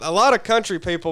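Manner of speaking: gum in the mouth; chewing gum. Real, not acted. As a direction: talk while chewing gum. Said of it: "I got gum in my mouth".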